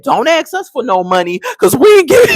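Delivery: high, loud retold refusal; dad loudly refusing to give money; dad snapping. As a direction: throw the dad's angry no-money line out hard. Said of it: "the dad snapped".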